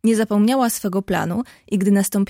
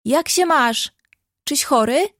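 calling out cheerfully; 5 semitones higher, 3 dB louder than usual. Acted. Girl calls to the sick boy at the window, cheerful hail. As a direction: call up to the window, a little louder and higher. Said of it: "wołając".

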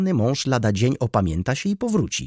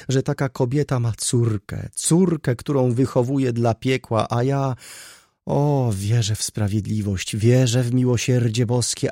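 high, loud, plaintive wail; moaning lament; 5 semitones higher, 6 dB louder than usual. A narrator's reading. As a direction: wail against fate with rising force. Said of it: "jęczała".

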